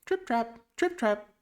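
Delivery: high, light trip-trap; tiny high-pitched hoof steps; hoofbeat imitation. A narrator's reading. Storyteller sounding the little goat's hooves, high sing-song imitation. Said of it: "went his hooves".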